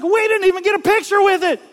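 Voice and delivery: hammed-up hillbilly lament, speeding up; fellow redneck. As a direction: play the disappointed good ol' boy. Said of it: "in true fellow redneck fashion".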